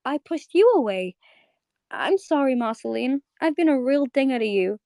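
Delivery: sorry, close to tears; apologetic Bubblegum. Retold or imitated. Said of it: "looks up at Marceline and goes".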